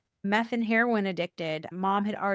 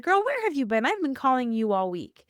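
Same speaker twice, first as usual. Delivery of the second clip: excited greeting; 4 semitones higher than usual. Retold or imitated. Retold greeting to friend.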